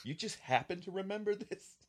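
put-on high, incredulous old man; mock old man. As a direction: scoff like a grumpy veteran. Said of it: "And he's like".

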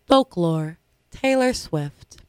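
slow, showy award announcement; award announcer voice. Acted. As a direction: call out the nominee like an awards host. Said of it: "Should I use my award announcing voice again?".

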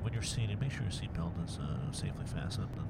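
nasal pilot announcement, nose pinched; holding nose. Acted. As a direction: talk with your nose held shut. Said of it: "I'm talking to you while holding my nose".

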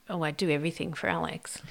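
whispered aside, unvoiced. Real, not acted. Wife confiding about doing husband's tax, whispered. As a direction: breathe it as a secret. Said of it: "whispered aside".

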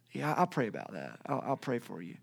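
low, soft acted condolence; subdued sympathy. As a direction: murmur a polite promise to pray. Acting out easy, empty sympathy.

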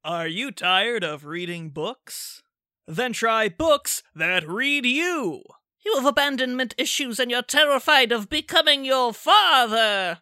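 ad read. Acted. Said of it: "give us an ad".

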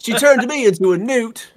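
loud, high mock complaint; indignant villager. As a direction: whine it like a wronged villager. Quoting a comedy villager.

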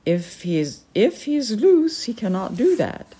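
haughty falcon lady. Acted. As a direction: quiz him like a stern noblewoman. The Peregrine speaks.

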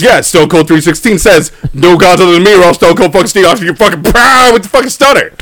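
a hint of wrestler bluster; lightly voiced wrestling threat; Stone Cold Steve Austin. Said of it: "Stone Cold Steve Austin God".

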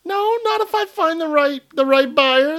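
high, loud pushy salesman pitch. Pretend. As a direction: sell it like a huckster. Salesman pitch on selling house.

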